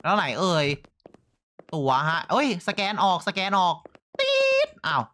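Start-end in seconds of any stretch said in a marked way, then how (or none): 4.2-4.7 beep sound. Retold or imitated. Imitating scanner beep.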